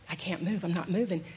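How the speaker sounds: low, soft, stubborn refusal; stubborn donkey. Retold or imitated. Preacher voicing the donkey refusing Balaam, low and stubborn. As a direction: dig in like a balky donkey.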